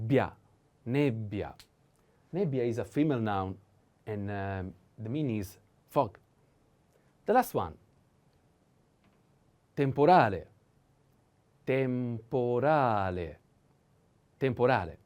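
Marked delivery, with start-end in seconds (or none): 0.1-1.5 bia then nebbia, bb held; double consonant demo. Shown as a demonstration. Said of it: "double B". 9.7-15.0 temporale stressed on a, middle take slow; slow teaching repetition. Shown as a demonstration. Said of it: "The accent is on a".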